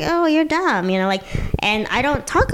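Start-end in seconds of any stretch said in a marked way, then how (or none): 0.0-0.9 high, far sneering put-down; mocking voice. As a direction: mimic a condescending jerk. People mocking her as dumb.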